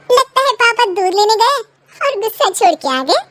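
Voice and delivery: put-on a boy ribbing his father; teasing child.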